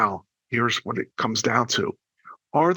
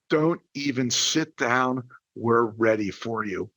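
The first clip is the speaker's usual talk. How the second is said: slow, measured unveiling of the key phrase; slow and low, savoring the big reveal; deliberate reveal; 4 semitones lower, slower than usual. Shown as a demonstration. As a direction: let each word land, unhurried. Reveals the promised magic words.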